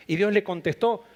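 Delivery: ordinary talk, nothing marked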